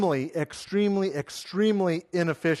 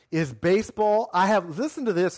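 normal talking voice

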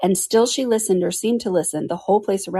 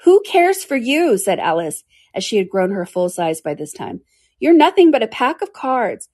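defiant; 4 semitones higher, 4 dB louder than usual. Acted. Full-sized Alice defies the court.

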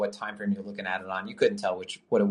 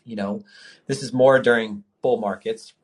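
hiccups; 3 dB louder, slower than usual. Real, not acted. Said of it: "I have, like, the hiccups".

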